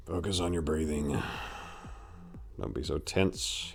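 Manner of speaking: calming his own temper inwardly; inner thought. A narrator's reading. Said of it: "he thought to himself".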